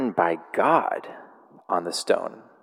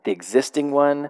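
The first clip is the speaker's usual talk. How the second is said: emphatic first take; 6 semitones higher than usual. Shown as a demonstration. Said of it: "they just would say things twice".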